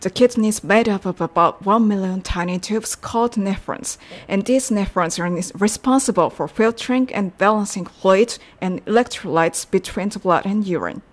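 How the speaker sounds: slow, careful read-through of the practice sentence; deliberate classroom recap reading. Shown as a demonstration. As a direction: read it slowly so learners can follow. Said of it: "セリフを練習しました".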